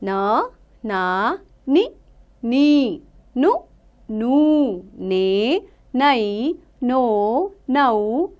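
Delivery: slow, drawn-out teacher's chant of each syllable; slow syllable recitation. Shown as a demonstration. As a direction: sound out every syllable slowly for children. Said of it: "अब हम पढ़ेंगे न की मात्राएं". (धीमे-धीमे अक्षरों का उच्चारण)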